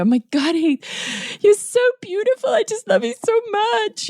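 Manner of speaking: smother him with over-the-top love; hammed-up adoration. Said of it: "ham that up".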